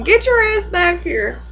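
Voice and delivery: high, slow holler after a dog; mock scolding call. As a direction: drag it out, calling the dog back. Acting out calling the dog back.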